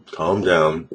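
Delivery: slow, settled self-soothing; calm soothing. Shown as a demonstration. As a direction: talk yourself down gently. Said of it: "Just like this".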